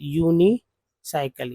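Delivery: यूनिसाइकिल slowly, starting with यूनी; teacher models यूनिसाइकिल slowly; slow pronunciation demo. Shown as a demonstration. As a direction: draw out यूनिसाइकिल for learners. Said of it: "यूएनआई को यूनी".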